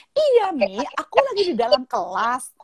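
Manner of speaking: lightly voiced schoolgirl reassuring her mum; impatient daughter. Daughter's reply acted out.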